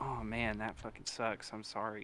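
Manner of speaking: a hint of fake sympathy; mock sympathy. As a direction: salesman mirroring a caller whose dog died. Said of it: "mirroring, you're like".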